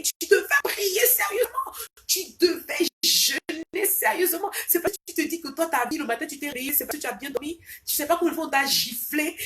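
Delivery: loud, high-pitched scolding in an Ivorian accent; accent ivoirien. Real, not acted. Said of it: "mon accent ivoirien". (accent ivoirien, exhortation vive, voix forte et aiguë)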